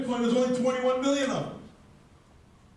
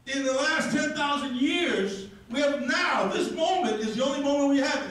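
rousing shout; 5 semitones higher than usual. Real, not acted. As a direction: build to a fiery peak. Rousing climax of speech.

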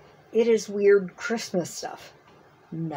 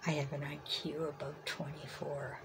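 quiet, deadpan joke at herself; self-mocking aside; 4 semitones lower, 13 dB quieter than usual. Real, not acted. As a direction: mutter it as a self-deprecating joke. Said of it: "I read that all backwards".

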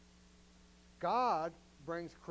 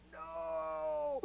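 a mildly higher no; retold refusal; 11 semitones higher, 3 dB louder than usual. Preacher recalling resisting the altar call, mild no. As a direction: push the call away, lightly voiced. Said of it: "I'm like".

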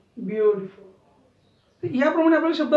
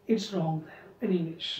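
very slow; 6 semitones lower, 8 dB quieter, much slower than usual. Shown as a demonstration. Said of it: "teacher speaking English".

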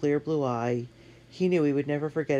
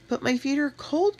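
put-on little girl voice; 13 semitones higher, 3 dB louder than usual. A narrator's reading. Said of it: "Katie told him".

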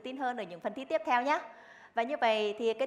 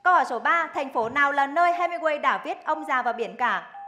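louder, urgent quiz read; game show host; 3 semitones higher, 6 dB louder than usual. Acted. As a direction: push the question out fast. Fast quiz round.

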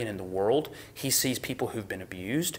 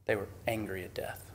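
whispered emphasis; 3 semitones lower, 9 dB quieter than usual. Real, not acted. Sermon, intense hushed emphasis.

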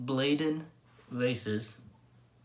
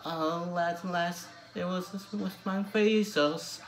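sung in an attempted Newcastle Geordie accent. Vlogger covering Blaydon Races for his viewers, sung in a Geordie accent. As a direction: sing the folk song with a Geordie lilt, doing your best. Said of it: "I'll be trying this one in a Newcastle Geordie accent".

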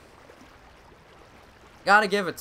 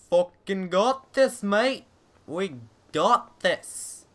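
hyped up; 7 semitones higher, 6 dB louder, slower than usual. Real, not acted. Psyching himself up, slow.

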